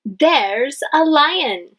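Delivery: slow, emphatic exclamation; exclaimed slowly; with emotion. Shown as a demonstration. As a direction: say it with feeling, drawn out. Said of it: "we say it with emotion".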